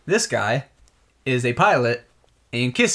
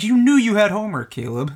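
scolding; 5 semitones higher than usual. Retold or imitated. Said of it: "And we're like".

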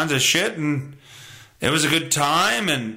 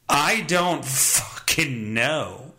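slow, drawn-out shrug; 5 semitones lower, much slower than usual. Shown as a demonstration. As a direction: drag each word out, resigned. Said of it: "I would also say".

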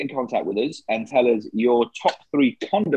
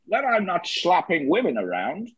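Sean Connery impression; 2 semitones higher than usual. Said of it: "So that was Sean Connery".

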